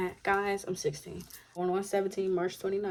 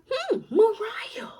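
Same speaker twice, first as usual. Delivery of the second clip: 1 musing whisper; 14 semitones higher, 7 dB louder, much slower than usual. Retold or imitated. Musing over a new name.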